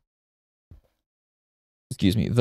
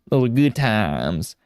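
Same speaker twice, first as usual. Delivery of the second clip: slow, lightly drawled redneck twang; a hint of a slow Southern redneck drawl; slower than usual. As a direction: lean lazily into a mild redneck drawl. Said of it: "a weird redneck energy".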